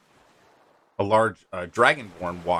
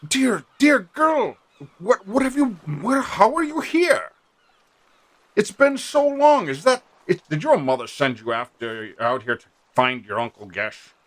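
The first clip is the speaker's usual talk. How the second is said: overjoyed uncle; 8 semitones higher, 4 dB louder than usual. Acted. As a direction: gush over her like a thrilled uncle.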